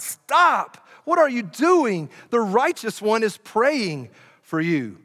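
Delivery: high, urgent shout of alarm; cried out. Acted. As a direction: stop them mid-throw. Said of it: "one of the priests cried out".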